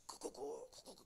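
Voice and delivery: high, very soft mimicked cooing; pigeon crying out. Trapped pigeon calling for its owner, mimicked high coo. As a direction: imitate a pigeon's repeated little call. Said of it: "비둘기는 부르짖습니다".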